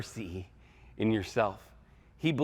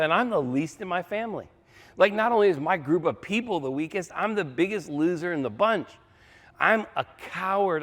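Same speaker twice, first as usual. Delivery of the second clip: higher-pitched, insistent confession of unfitness; self-deprecating protest; 5 semitones higher than usual. Acted. Gideon telling God he is the biggest loser, high and protesting. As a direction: pile up excuses, pitched high.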